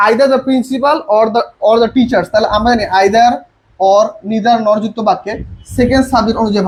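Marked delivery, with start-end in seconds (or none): 0.1-2.3 slow dictation. Shown as a demonstration. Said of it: "বলছে".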